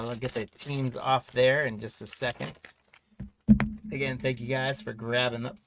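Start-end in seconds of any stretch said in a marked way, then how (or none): 3.9-5.6 talking through hiccups; hiccuping between words. Real, not acted. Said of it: "I got the hiccups".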